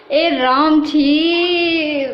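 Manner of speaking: long drawn-out yuck; disgusted groan. Real, not acted. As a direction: stretch the words out in dismay. Disgusted at boring movie on TV.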